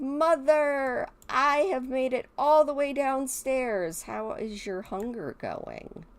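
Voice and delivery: put-on high, sweet little kid calling Mom; sim child voice. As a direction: play a small child announcing herself to Mother.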